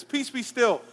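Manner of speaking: a hint of Jesus commanding the sea; Jesus calming the storm. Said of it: "And he says".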